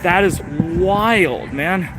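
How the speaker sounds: slow it down, stunned and amused; exasperated disbelief. Real, not acted. Ride still closed, exasperated.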